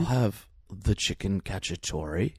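slow, lightly voiced movie-star impression; unhurried, drawn-out order, hint of impression; Keanu Reeves. Co-host orders dinner as his celebrity impression, lightly slowed. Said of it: "It's a major part of my Keanu".

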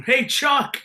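high mock holler; imitating mom's call. Host echoing the mom's yell to the wrestler, high mock call. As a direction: playfully mimic a mom hailing someone.

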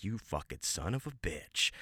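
hushed, under the breath, a touch of a different voice; muttered curse. Retold or imitated. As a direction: swear quietly so no one hears. Silent fart during scene, cursing.

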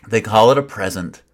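mocking. Shown as a demonstration. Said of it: "I can barely say it".

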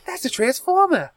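high-pitched laughing, slow; laughing hard. Real, not acted. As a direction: laugh through the words. Laughing at transformer joke.

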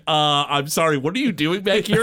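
play-acted puzzled worker; mock bewildered staffer. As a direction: question an intruder in mock confusion. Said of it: "have people be like".

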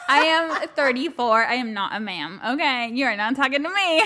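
giggling through a mock protest; laughing protest. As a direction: laugh while pushing back. Retold high protest.

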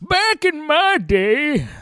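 hammed-up segment title. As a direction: stretch every word of the title playfully.

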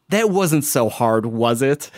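slow, smug little taunt with a laugh. Retold or imitated. Driver taunting the cyclist after he carries his bike around, slow and smug. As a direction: rub it in slowly, amused. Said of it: "she fucking says to me".

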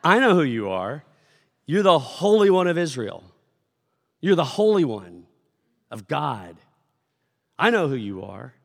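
loud outcry, naming who he is; shouting demon. Acted. Spirit names Jesus in front of worshippers, shouting. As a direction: declare it loudly as the unclean spirit. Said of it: "I, I just shouted".

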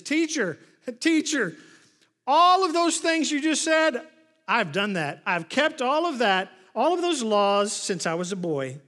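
high, loud, acted-out eagerness; mock-earnest plea, starting high and loud; eager insistence. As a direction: insist like a keen pupil to the teacher. Acts out eager man answering Jesus.

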